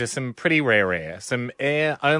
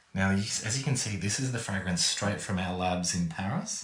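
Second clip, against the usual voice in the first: hushed whisper, much slower; 5 semitones lower, 9 dB quieter than usual. Presenting the fragrance to the visitors, the speaker is whispering. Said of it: "Why are we whispering?".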